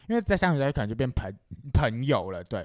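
talking through hiccups; hiccuping between words. Real, not acted. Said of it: "有点打嗝这样子".

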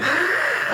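imitated Korean throat sound. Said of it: "他们就会，".

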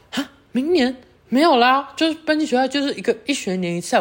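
mock incredulous friend voice. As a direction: imitate a friend laughing off the mistake. Friend corrects her mistaken belief.

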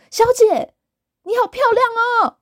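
high, fast, put-on voice of a creepy stranger; quick high-pitched leering flattery; creepy flatterer. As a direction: gush the compliment in a shifted voice. Voicing strange man's flattery.

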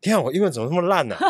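high, fast, laughing self-mockery; laughing at herself. Real, not acted. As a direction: laugh it out at yourself.

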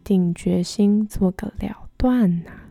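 gentle storybook narration; story narration. A narrator's reading. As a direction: read it like a picture book.

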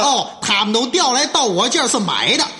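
mock-outraged self-defence; worked-up indignation. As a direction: protest at length like an accused braggart. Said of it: "他可急了".

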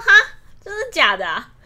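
loud, high mock "really?"; mock surprise. Trainer overacting surprise at a sixteen-year-old, loud and high. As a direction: ham up the trainer's showy disbelief.

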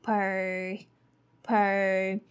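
per with relaxed er. Shown as a demonstration. Teacher modeling per syllable. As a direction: say per quickly. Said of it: "second part is Per".

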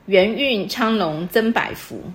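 reads each syllable slowly and evenly, like reciting verse; slow couplet recitation. Shown as a demonstration. Teacher reciting a couplet example to the student, slow and measured. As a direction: savour the couplet one word at a time. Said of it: "遇到的这种上联是".

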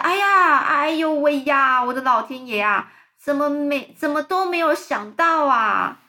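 high, loud delighted exclamations; excited cries. Acted. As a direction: everyone cries out amazed. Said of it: "大家纷纷就叫起来". (大家惊喜地高声叫起来)

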